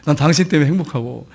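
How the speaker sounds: warm words. Shown as a demonstration. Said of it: "그렇게 좀 따뜻하게 해주세요".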